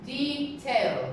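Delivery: detailed with DE leaned on; DE-tailed, first part strong; stress on first syllable. Shown as a demonstration. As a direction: model detailed with the stress up front. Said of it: "the stress is on the first syllable".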